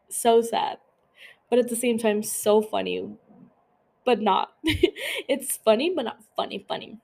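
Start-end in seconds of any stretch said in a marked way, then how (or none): 4.6-5.2 brief high giggle; quick laugh slipping out mid-thought. Real, not acted. Podcaster backtracking on a joke, brief high giggle.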